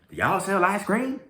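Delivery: loud, high country twang; funny country accent. Retold or imitated. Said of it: "he has such a funny accent".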